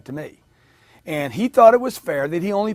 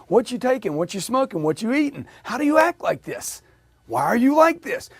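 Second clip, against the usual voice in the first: rising higher in mock disbelief; amazed questioning; 7 semitones higher than usual. Amazed customer to very positive salesman, incredulous. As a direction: pile up incredulous questions, climbing in pitch.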